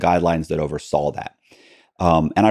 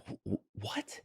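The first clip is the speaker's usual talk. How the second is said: stunned; 2 semitones higher, 21 dB quieter, slower than usual. Retold or imitated. Stunned looking at husband.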